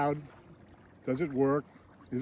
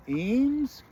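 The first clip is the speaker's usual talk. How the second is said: high, questioning call for someone; 10 semitones higher, 3 dB louder than usual. Retold or imitated. Husband calling for his missing wife, high imitated call. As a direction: call through the house, pitch raised.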